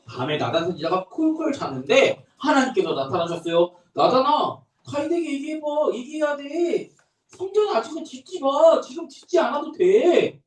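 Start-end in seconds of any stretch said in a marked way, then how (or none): 3.9-10.4 higher, gently instructing Nathan at night; a lightly voiced God speaking kindly; gentle voice of God. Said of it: "이렇게 얘기를 했어요".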